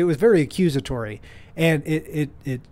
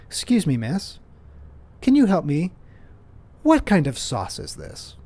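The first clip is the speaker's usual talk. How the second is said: mock polite request; 4 semitones higher than usual. Shown as a demonstration. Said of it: "saying something like this".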